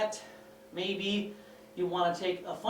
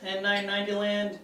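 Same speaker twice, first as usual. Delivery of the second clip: breathless after running upstairs; out of breath. Real, not acted. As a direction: talk while still catching breath. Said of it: "Sorry, I'm a little out of breath".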